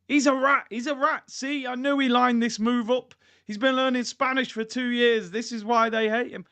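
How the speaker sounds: outraged fans. Acted. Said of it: "I'm seeing Liverpool fans annihilate him".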